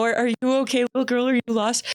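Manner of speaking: a hint of a kindly stranger. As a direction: gently check on a lost child, lightly acted. Acting the kind stranger approaching child.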